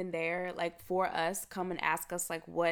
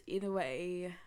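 voice crack; 5 dB quieter, slower than usual. Real, not acted. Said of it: "did you just hear my voice crack?".

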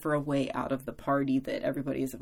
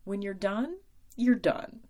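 a hint of a knowing mother, pitched higher; lightly voiced mom, matter-of-fact and wise; mom's voice; 5 semitones higher than usual. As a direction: mom calmly setting her daughter straight, lightly voiced. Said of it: "And my mom's like".

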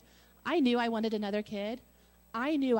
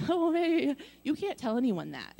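nervous laughing; 6 semitones higher, 3 dB louder than usual. Retold or imitated. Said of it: "he started laughing really nervously".

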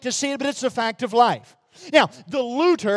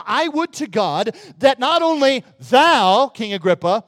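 slow, rising fervent plea; Paul pleading with King Agrippa, fervent; voicing Paul's plea; 3 semitones higher, 5 dB louder, slower than usual. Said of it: "and he says to him".

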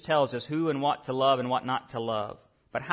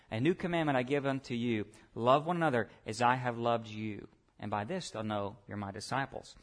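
softer, lower scripture quote; special solemn emphasis; 5 semitones lower, 6 dB quieter than usual. Acted. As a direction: let the verse sink down, quieter towards the end. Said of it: "put some special emphasis on these words".

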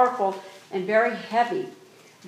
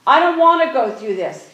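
louder, anguished plea; pleading prayer; 6 dB louder than usual. Retold or imitated. Jesus in the garden, pleading with the Father, louder. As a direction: cry it out to the Father. Voicing Jesus praying in Gethsemane.

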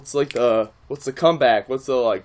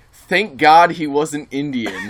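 laughing while quoting; 2 semitones higher, 5 dB louder, slower than usual. Retold or imitated. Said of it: "says in the gym, out loud".

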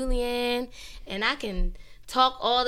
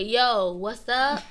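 AAVE casual greeting; 4 dB louder, much slower than usual. Shown as a demonstration. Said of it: "When I'm with my friends, I'ma say".

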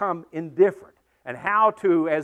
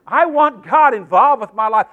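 louder repeat; 2 semitones higher, 7 dB louder than usual. Acted. Repeat after Amen, louder.

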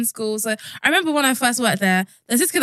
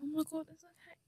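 mock panic; 7 semitones higher, 20 dB quieter than usual. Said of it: "we were all pan".

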